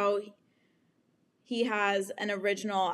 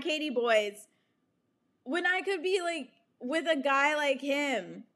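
exasperated disbelief; 5 semitones higher than usual. Retold or imitated. Inner outburst of frustrated disbelief.

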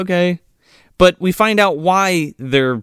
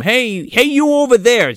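raised calling-out voice, pitched up; mock yell; 7 semitones higher, 3 dB louder than usual. Host imitating a local calling across the pier, mock yell. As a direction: hail someone across a pier, half-earnest. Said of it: "yells to the other character across".

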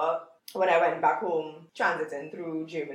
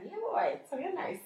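higher, exaggerated Trinidadian lilt; playful Trini accent; 10 semitones higher, 5 dB quieter than usual. Trini speaker mocks her own accent in a Trinidadian lilt. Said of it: "hear myself talking".

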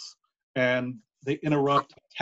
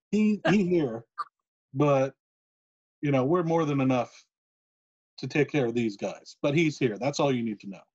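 put-on Cuban accent. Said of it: "as Scott Hall says in his Cuban accent".

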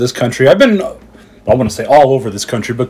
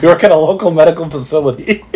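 wrestling announcer; 6 semitones higher than usual. Retold or imitated. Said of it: "like pro wrestling does".

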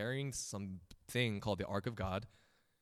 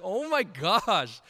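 sheepish; 9 semitones higher, 7 dB louder, much slower than usual. Retold or imitated. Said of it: "I was like".

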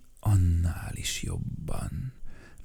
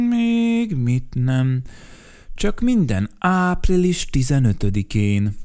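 firm refusal; 4 semitones higher, 4 dB louder than usual. Acted. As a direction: put your foot down. Mikka Makka refuses firmly. (határozott, hangosabb elutasítás)

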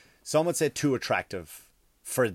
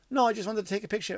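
mock fan refusal; 11 semitones higher, faster than usual. Voicing the fan declining the offer.

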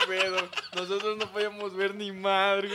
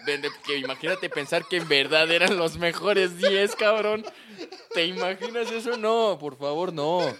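laughing through the words; can't stop laughing; 3 semitones higher, 5 dB louder than usual. Real, not acted. Laughing at their own mistake.

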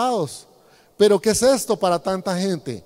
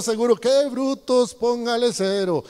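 mock exasperated rant. Pastor mocks his own imagined rant.

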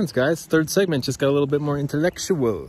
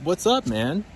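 friendly visitor; 2 semitones higher than usual. Retold or imitated. Friend greets him at the studio, imitated friendly visitor. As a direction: imitate a pal dropping by. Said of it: "someone who's like".

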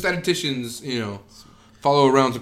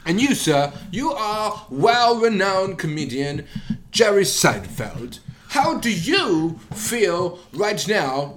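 higher, slow reporter voice; mock interviewer; 5 semitones higher, slower than usual. Reporter questioning the comedian on stage, slow higher mock interviewer. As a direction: ask it like a TV reporter.

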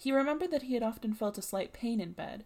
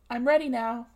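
I'm ready now, each word separate and loud; carefully enunciated; 2 semitones higher, 8 dB louder than usual. A narrator's reading. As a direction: pause between every word, over-careful. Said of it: "enunciating very carefully and putting long pauses".

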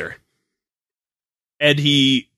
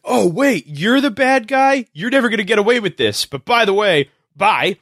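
higher, sing-song mock cop voice; lightly hammed dumb cop; 6 semitones higher than usual. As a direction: tease the clueless police. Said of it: "It's like".

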